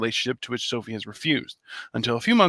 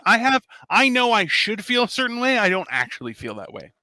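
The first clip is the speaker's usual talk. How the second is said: raised, whiny pleading voice; high whiny excuse; 9 semitones higher, 3 dB louder than usual. Acted. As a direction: plead it high like a sheepish husband. His own quoted excuse.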